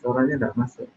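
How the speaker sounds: muffled behind a mask; through a face mask. Real, not acted. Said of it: "mungkin karena kita pakai masker ya, suaranya jadi kecil".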